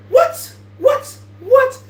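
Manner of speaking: shrill-free high startled what; high rising what, repeated; high shocked squeal. Acted.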